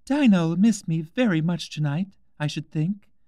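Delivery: put-on high, girlish voice talking to herself; Alice musing wistfully as she falls; young Alice. A narrator's reading. Alice talking to herself while falling, high and wistful.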